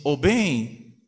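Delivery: a touch of tender coaxing; coaxing mother. Acted. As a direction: lightly imitate a mother coaxing her husband. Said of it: "e fala assim".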